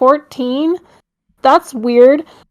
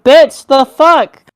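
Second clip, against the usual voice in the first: incredulous; 4 semitones higher, 6 dB louder, much slower than usual. Retold or imitated. Retold outraged reaction.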